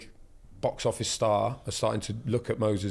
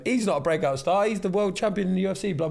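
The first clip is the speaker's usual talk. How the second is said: put-on American accent; 7 semitones higher than usual. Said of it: "what accent do they have".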